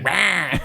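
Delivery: high-pitched "rah" growl-cry; imitated angry noise. Storyteller imitating the crazy lady, high mock roar. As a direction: mimic a ranting woman with one wordless outburst. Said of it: "she's like".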